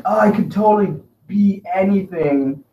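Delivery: hammed-up gushing over a book; mock rapture. Acting out loving a self-help book, mock rapture. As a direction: gush dreamily, slowing as you go. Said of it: "that's how good I love it".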